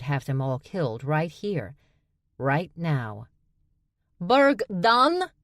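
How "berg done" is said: high, loud called-out question; bright calling woman's voice; calling female voice. A narrator's reading. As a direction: call out across the crowd. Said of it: "a female voice called out".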